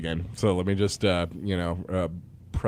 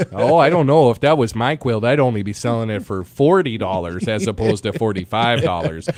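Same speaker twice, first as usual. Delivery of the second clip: haggling Michigander; 5 dB louder than usual. Retold or imitated. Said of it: "that's how we do it up here in Michigan".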